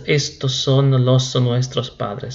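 slow demo of the mistake with los; teacher slowly showing the wrong form; wrong version, slowly. Shown as a demonstration. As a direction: say estos son los nuestros padres slowly, as the error. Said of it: "no es".

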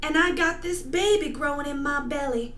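fast, hammy lament; tragic heroine sorrow. Acted. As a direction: rush the line melodramatically. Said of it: "performing a monologue for you".

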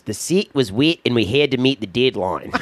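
put-on New Zealand accent, set as sit; clipped Kiwi vowels, wet as wit. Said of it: "New Zealand accent by this one guy".

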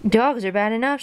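mild storybook shout; understated shout of complaint. Acted. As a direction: exclaim it in protest, without full volume. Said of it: "shouted the mailman".

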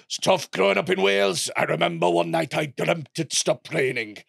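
light gruff Welsh comedian impression; gruff Welsh accent. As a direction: deliver the joke in a Welsh accent. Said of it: "Sort of has a gruff Welsh voice like this".

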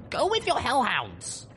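very high, slow, forceful shout; shouting back. A narrator's reading. Rescuer refuses the colonel, shouting back. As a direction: hurl it back, stretched out and high. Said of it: "I shouted back".

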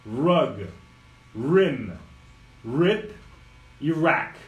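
"Rug", "Rim", "Rip", "rack" with a low dog-growl R; growled English R. Shown as a demonstration. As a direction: growl each R slowly. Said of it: "cachorro bravo".

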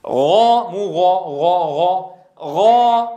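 a loud, thick "غا"; heavy ghain. Shown as a demonstration. Teacher drilling the emphatic ghain. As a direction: push the "غا" heavy and full. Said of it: "خلص التفخيم من الترقيق".

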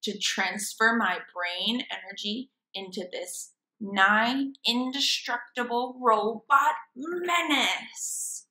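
hammy mad scientist gloating over his robot; grand evil-genius monologue; villain scientist voice. Acted.

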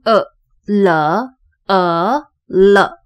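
呃 and 了 as separate short schwa syllables; sounding out schwa. Shown as a demonstration. Phonics teacher demonstrating the lazy vowel, sounding out 呃, 了. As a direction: sound out 呃, then blend it into 了. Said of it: "第二个E是懒人音".

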